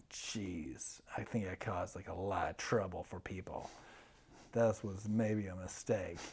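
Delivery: hushed sheepish whisper; whispered realization. Retold or imitated. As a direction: say it under your breath, dawning guilt. Sobered, quiet self-realization.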